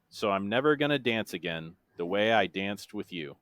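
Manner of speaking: measured lyric recital, pausing between lines; deadpan monotone. Shown as a demonstration. Quizmaster reads a long chorus clue, in a monotone. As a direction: speak the chorus as dry prose. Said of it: "said in my best monotone voice".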